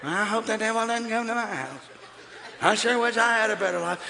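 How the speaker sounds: soft, meek mock of a timid believer; a hint of a meek, hopeful whine; timid wishing. Preacher mocking a timid Christian, quietly meek. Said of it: "You come to my house".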